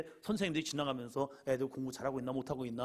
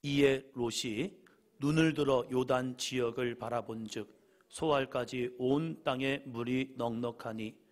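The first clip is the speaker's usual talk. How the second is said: slow, solemn Bible reading; scripture reading; 5 dB louder, slower than usual. Acted. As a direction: read the verse with weight. Reads scripture aloud. (천천히 엄숙하게 성경 봉독)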